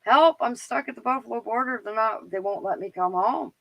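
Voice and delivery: high, pleading retold distress; almost in tears. Phoning her dad from the Buffalo border, high tearful plea. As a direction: beg dad for help, half-tearful. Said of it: "I was almost in tears".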